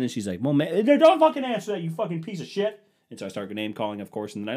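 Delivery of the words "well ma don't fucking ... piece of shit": much higher and louder mock wife; wife yelling insults. Wife cursing at husband, loud retold shout. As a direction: hurl it back as her. Retold argument, wife's line.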